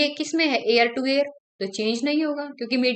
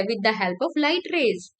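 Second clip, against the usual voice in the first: slow dictation; 2 semitones lower, much slower than usual. Shown as a demonstration. Teacher giving the key answer.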